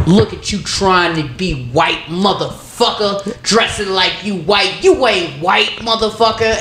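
slow, drawn-out street heckle, rising high; lightly voiced heckler jeering; homeless man rant. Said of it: "some fucking homeless person who was just like".

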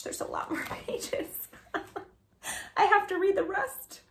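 giggling through the words; laughing. Real, not acted. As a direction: laugh while you read. Laughing at absurd book.

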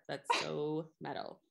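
slow flat deadpan; monotone. Shown as a demonstration. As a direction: drag it out with no inflection. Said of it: "I'm gonna continue to say it in a monotone voice".

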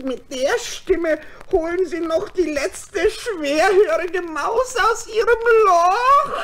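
slow, laughing jeer rising to a shout; mocking laugh. Nephew mocking the wolf's singing, laughing. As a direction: laugh him down.

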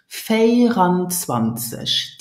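slow, stretched "Vierundzwanzig", run together as one word; careful demonstration. Shown as a demonstration. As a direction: model "Vierundzwanzig" slowly for learners. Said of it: "Did you hear how I pronounce it?".

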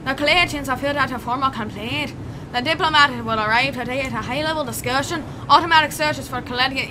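put-on amateur Irish accent. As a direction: read the bulletin with an Irish lilt. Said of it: "I'm gonna get my Irish accent on".

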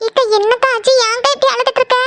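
high-pitched worried pleading; alarmed concern. Acted. Sister begs crying elder sister to explain, alarmed. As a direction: question her anxiously, pitched well up.

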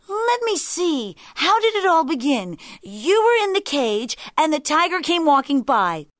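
high, loud jackal puzzling it out; muddled jackal. A narrator's reading.

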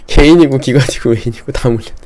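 laughing through the words. Real, not acted. Trader tells viewers everyone is stuck, laughing. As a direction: break into a real laugh while listing.

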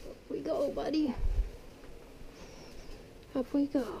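hushed, gentle coo to a small pet; quiet tender murmur while lifting; soft lifting coo. Real, not acted. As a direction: ease him up softly, almost under the breath.

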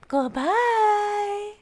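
high, drawn-out farewell; cheery sign-off. Real, not acted. Streamer signs off to viewers, high and cheery. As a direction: call it out brightly.

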